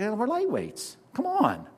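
high, mocking shrug-off of the sacrifice; mock dismissive whine. Preacher mocking believers who shrug off sacrifice, high and dismissive. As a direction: sneer it off like it's nothing. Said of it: "we just say".

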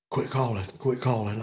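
low, hushed, insistent warning; retold urgent whisper. Johnny hushing his partner as something approaches. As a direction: hiss it under your breath.

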